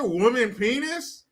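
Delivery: Woman penis asked slowly with a rising tune; slow disbelieving question on Woman penis; drawn-out baffled Woman penis; incredulous repeat. Shown as a demonstration. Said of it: "can you say those two words".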